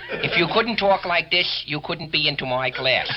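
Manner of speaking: speech teacher voice. Shown as a demonstration. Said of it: "used to talk like this".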